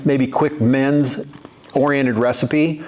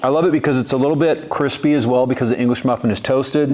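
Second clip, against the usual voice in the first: talking through a mouthful of food; words around a bite of sandwich; mouth full. Real, not acted. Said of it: "I'm talking with my mouth full".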